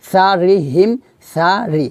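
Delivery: "সা রি" with light, thin s and r; thin letters. Shown as a demonstration. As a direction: keep "সা" and "রি" thin, not heavy. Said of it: "সা জবর সা পাতলা". ("সা রি" পাতলা করে)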